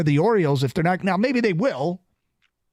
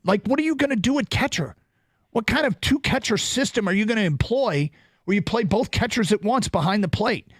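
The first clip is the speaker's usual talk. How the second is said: exasperated rant, rising pitch and heat; worked up; 5 semitones higher than usual. Real, not acted. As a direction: vent at the front office in disbelief. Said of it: "I'm getting worked up".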